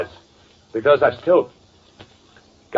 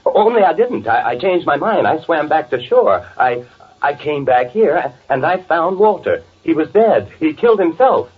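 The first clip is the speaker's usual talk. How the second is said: higher, stammering, desperate voice; panicked pleading; 4 semitones higher than usual. Acted. The accused brother pleading with the detective, high and panicked. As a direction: plead like a cornered man.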